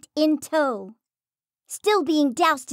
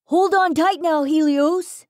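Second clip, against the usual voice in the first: loud, urgent call to hold on; 2 semitones higher, 5 dB louder than usual. Acted. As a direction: call out over the wind. Rider urging passenger to hold.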